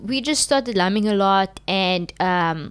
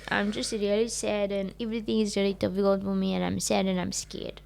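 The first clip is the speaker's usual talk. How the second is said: fake sad little girl; 7 dB quieter than usual. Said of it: "I play the card of I'm sad little girl".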